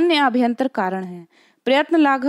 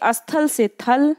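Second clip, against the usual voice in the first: slow, deliberate example; slower than usual. Shown as a demonstration. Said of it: "ये बहुत important है".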